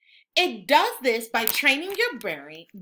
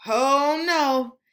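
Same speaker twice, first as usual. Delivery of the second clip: louder, mock-alarmed gasp of concern; 2 semitones higher, 6 dB louder than usual. Narrator to children, spotting Scribble Spot's trouble, mock alarm. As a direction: sound the alarm for the kids.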